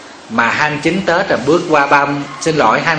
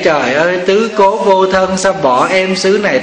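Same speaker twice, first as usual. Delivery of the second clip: slow, drawn-out mock keening; mock grief, stretched out slowly; imitated wailing lament; 3 semitones higher than usual. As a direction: imitate a widow's tearful lament, drawing out the words. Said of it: "bà khóc mà bà kể".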